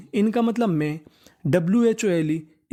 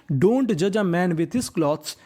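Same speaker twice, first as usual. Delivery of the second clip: slow reading aloud; much slower than usual. Shown as a demonstration. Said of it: "teacher reads the sentence aloud".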